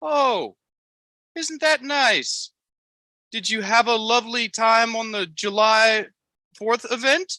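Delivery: high put-on Amish voice, politely chatty; Amos, Amish impersonation. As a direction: coo approval in a very high Amish caricature. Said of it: "your Amos Amish impersonation".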